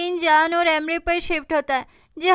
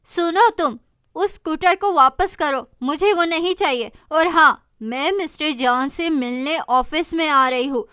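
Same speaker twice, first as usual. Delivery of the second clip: commanding mother; 4 dB louder than usual. Acted. Mother orders daughter.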